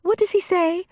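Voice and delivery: a hint of dithering confusion; flustered character voice. Speaker losing the line, mildly flustered.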